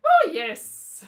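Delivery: high, loud mock agreement; mum's exaggerated assent. Mum obliged to approve of the show, exaggerated assent. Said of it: "She didn't say it like that".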